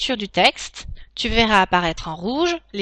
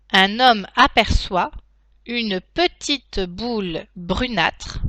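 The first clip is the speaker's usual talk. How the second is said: slow dictation, each chunk spaced; dictating; slower than usual. Shown as a demonstration. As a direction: dictate slowly with punctuation spoken. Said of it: "passer à la dictée en elle-même".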